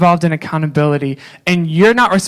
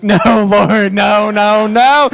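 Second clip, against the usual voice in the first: retold anguished crying; 2 semitones higher, much slower than usual. Scene: grieving lost leaders to God, anguished pleading. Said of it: "like, crying".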